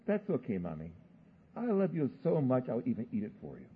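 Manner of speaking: a hint of a sweet-talking child; child reassuring Mommy, lightly imitated; little daughter. Child's words to mother retold.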